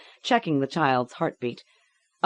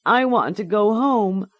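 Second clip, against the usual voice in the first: put-on high, tearful child's plea; pleading child; 7 semitones higher, 5 dB louder than usual. A narrator's reading. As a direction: beg to go home.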